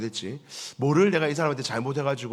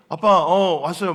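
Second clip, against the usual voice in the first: overly eager greeting; 2 semitones higher, 6 dB louder than usual. Retold or imitated. Son greets suspiciously eagerly.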